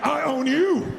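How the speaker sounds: mean every word of it; forceful playful challenge; said like you mean it. Shown as a demonstration. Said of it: "say it like you mean it".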